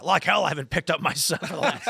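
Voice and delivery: amused mock protest with a laugh in it; laughing retold quote. Retelling a dad's funny comeback to the group, laughing.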